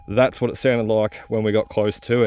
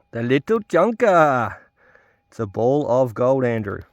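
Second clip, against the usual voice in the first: understated. Real, not acted. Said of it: "I didn't say that with much excitement in my voice".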